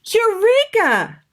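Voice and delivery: high, loud, slow eureka; triumphant eureka. Acted. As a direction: burst out with the idea. Maggie gets the idea.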